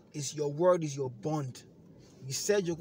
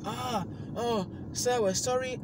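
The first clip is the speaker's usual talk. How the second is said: flustered agent; 8 semitones higher, 4 dB louder than usual. Retold or imitated. Apologizing agent voiced in story.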